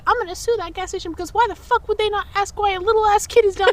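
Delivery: retold mom ranting at the gas station; mock angry mom. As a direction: imitate mom's furious rant. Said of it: "And I got screamed at".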